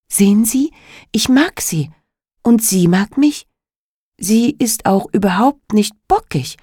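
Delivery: put-on a child defending her horse; girl voice. Emma pleads for her horse. (eifriges Mädchen)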